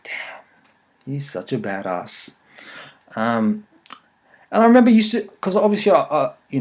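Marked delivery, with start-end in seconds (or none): 0.0-2.3 whispered admiration, slowing down; hushed awe. Retold or imitated. Kid watching a pop star do his moves, hushed awe. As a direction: breathe it out slowly, as if awestruck by an idol. Retold awe at childhood idol.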